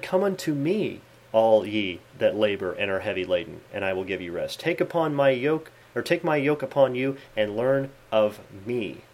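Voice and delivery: solemn Bible reading, slowing at the end; scripture reading. Acted. Preacher quoting Jesus's real words to the sect, solemn. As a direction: read the true verse with reverence.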